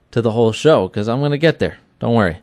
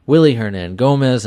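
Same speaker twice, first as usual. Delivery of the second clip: ordinary delivery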